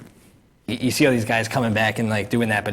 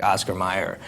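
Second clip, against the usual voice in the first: said fast; 5 semitones lower, 4 dB quieter than usual. Retold or imitated. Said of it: "say it fast".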